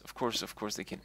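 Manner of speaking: tripping over repeated words; stuttering. Real, not acted. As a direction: stammer and repeat the phrase. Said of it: "I'm repeating myself and I'm stuttering".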